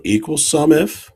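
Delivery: reading out a formula piece by piece; dictating. Shown as a demonstration. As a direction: spell out each part with pauses. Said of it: "I'll just talk us through".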